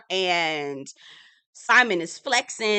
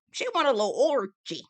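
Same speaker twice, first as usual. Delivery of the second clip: higher, teasing sing-out; playful higher-pitched taunt; 6 semitones higher, faster than usual. Retold or imitated. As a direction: tease it out high. Teasing repeat of "orgy.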